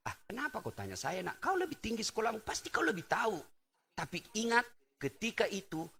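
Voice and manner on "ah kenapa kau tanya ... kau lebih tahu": soft, lowered modest mother's reply; a hint of a shy, softer-voiced mother; humble mother. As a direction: answer softly like a humble old mother. Modest mother answers her son.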